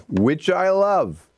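high, slow swoon on "love"; gushing. Real, not acted. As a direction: stretch out "love" dreamily. Gushes about salami.

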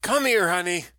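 put-on a loud old woman beckoning the young man; brash old woman. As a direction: call him over like a bossy old auntie. Doris voiced by narrator.

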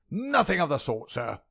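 high, loud crackling refusal; screaming old miser. A narrator's reading. Miser refusing the family pays, high loud scream. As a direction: cut him off shrilly. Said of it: "screamed the little man".

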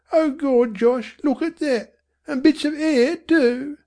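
high, alarmed mother; frightened mother. A narrator's reading. Mother discovering blood on the stick, alarmed. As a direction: recoil as she says it.

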